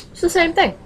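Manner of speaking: high, exasperated "same thing"; exasperated squeak. Real, not acted. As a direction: squeeze it out high in disbelief. Repeats point, higher and softer.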